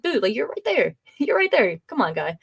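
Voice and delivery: imitating an eye-rolling rebuke; exasperated. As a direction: scoff at the fake surprise, then drop to a grumbled "come on, guy". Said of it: "It's like".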